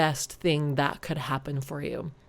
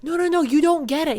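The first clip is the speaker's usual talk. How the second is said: higher, a bit louder, kindly correcting; gentle angel voice; 10 semitones higher, 4 dB louder, faster than usual. Retold or imitated. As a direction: set the listener straight with patient cheer. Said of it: "and he says".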